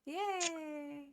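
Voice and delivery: breathy whispered cheer; whispered yay. Real, not acted. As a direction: whisper it happily. Cheering the end of video.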